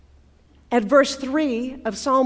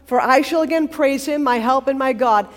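plaintive, earnest; 3 semitones higher, 5 dB louder than usual. Acted. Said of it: "it sounds kind of plaintive, kind of earnest".

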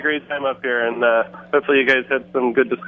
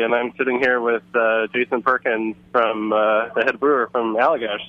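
over a phone line; calling in from a noisy bar; phone speaker. Real, not acted. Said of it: "So we'll try to put on speakerphone".

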